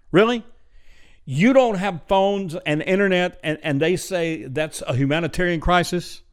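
scoffing disbelief, pitch jumps up; mock the claim with a sneer; sarcastic. Real, not acted. Mocking a humanitarian crisis claim.

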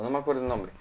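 normal talking voice

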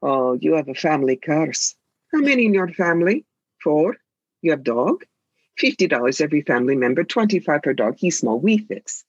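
broken English hawker's pitch, rising on come; lightly put-on fortune-teller accent luring a customer; fake gypsy accent. Fake fortune teller hooking a passer-by at the fair, in a mock accent. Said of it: "The fake gypsy had told her".

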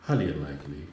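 booming arrogant alien overlord. Acted. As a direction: gloat over the puny humans. Villain outro voice.

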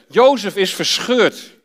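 a father's grief rising over his lost son; grieving cry. Acted. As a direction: let the grief break upward on Jozef.

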